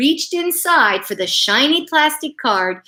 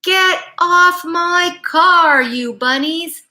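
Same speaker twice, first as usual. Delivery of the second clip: loud, higher, slow shout; hammed-up angry dog shout; 7 semitones higher, 5 dB louder, slower than usual. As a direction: shout at the bunnies on the hood. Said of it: "Mike shouted".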